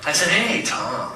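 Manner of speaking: mock sermon in the pastor's voice, building from hushed to big; Pastor Doug impression. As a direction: play the beloved pastor mid-sermon, milking every pregnant pause. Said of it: "this is my impression of you".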